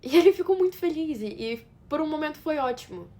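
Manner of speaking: high, lifted, happy recollection; fond excitement. Acted. Wife recalling their happy moment, fondly excited. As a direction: start loud and high with remembered joy. Recalls his joy at the pregnancy.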